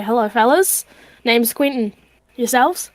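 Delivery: put-on Australian accent with lifted question at the end; friendly Aussie introducing himself. Player greets sailors in character as Quentin, Australian accent. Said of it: "he definitely has an Australian accent".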